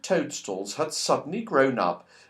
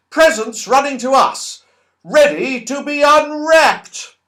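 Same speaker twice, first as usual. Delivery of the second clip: delighted; 10 semitones higher, 7 dB louder than usual. Acted. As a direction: squeal with glee at the running gifts. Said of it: "in delight".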